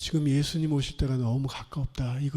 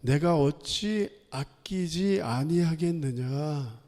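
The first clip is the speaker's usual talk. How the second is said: slow, measured divine question; 하나님; much slower than usual. Retold or imitated. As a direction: ask it solemnly, drawing out each phrase. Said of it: "하나님께서 이렇게 질문을". (하나님 말씀처럼 천천히 묻기)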